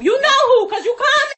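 yelling through a laugh; angry shout. Real, not acted. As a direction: throw it in her face. Heated argument, yelling.

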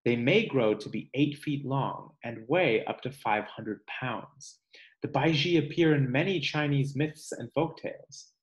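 measured read-aloud voice for a class; reading to children. Acted. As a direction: read the book aloud to kids, slowing on each animal's name. Teacher reads book aloud.

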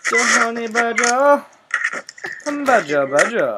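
high, goofy put-on voice; silly cartoon voice. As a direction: announce it like a goofy cartoon character. Repeats the phrase in a put-on voice.

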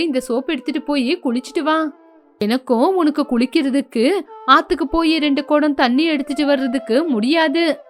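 a miserly mother talking down to her son; stingy mother. Acted. Mother explains soap.

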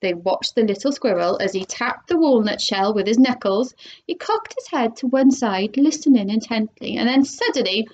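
lively storybook read-aloud; animated picture-book narration; reading to children. Acted. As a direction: read it like story time for kids. Reads a chapter aloud to children.

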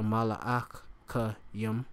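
mala'achayim said slowly, syllable by syllable, ma-la-ach-a-yim; Hebrew word slowly. Shown as a demonstration. Teacher sounds out Hebrew for angels, slow and careful. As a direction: spell out mala'achayim slowly for the class. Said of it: "angels, or".

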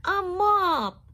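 bright, loud, high exclamation; excited cry. A narrator's reading. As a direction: shout it out with delight. George finds the mop, excited.

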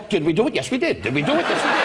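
mock lovemaking dialogue. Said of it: "you go".

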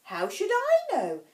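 high, loud, bold retort. A narrator's reading. Alice answers back to the Queen, boldly. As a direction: answer back with sudden courage. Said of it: "surprised at her own cour".

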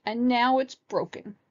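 high, upset cub voice; high childish protest; crying baby bear. A narrator's reading. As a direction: whine it like a small child. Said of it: "cried Baby Bear".

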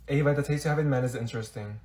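soft, low, quick undertone; muttered aside. Acted. Friend judging Ava's taste in men, muttered aside. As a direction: comment discreetly under the breath. Hidden aside about the boyfriend.

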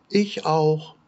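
very high peeping chick voice; baby chick. A narrator's reading. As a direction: peep it like a tiny chick. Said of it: "rief das Küken".

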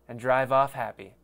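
hammed-up announcer ad read. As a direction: sell it like a cheesy radio spot. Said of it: "That was a shit ad".

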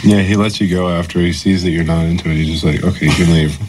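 talking while chewing; words around a bite of food; mouth full. Real, not acted. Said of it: "don't talk with your mouth full".

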